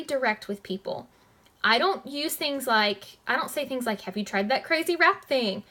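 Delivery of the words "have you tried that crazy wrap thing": mock cheesy salesy question; cheesy pitch. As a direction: ham up a cheesy sales line. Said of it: "That's cheesy".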